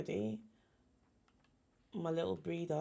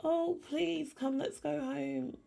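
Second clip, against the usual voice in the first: high squeaky cooing over a tiny chick; 10 semitones higher than usual. Real, not acted. Cooing at her new chick in the game, high baby talk.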